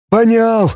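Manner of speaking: «Понял!» as поня́л, stress on the last syllable; «Понял!» grunted high, stress on the end. Acted. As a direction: grunt «Понял!» hitting the final «ял». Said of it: "ставя ударение на последний слог".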